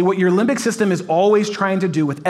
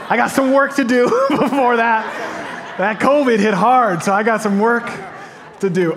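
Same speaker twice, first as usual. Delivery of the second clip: laughing at himself; 4 semitones higher than usual. Real, not acted. Pastor joking about his own body, laughing. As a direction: chuckle through the admission.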